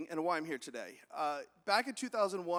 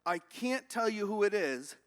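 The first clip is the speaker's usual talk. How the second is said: guarded cop; 5 dB louder than usual. Acted. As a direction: stretch out the refusal for suspense. Cop withholding a third time.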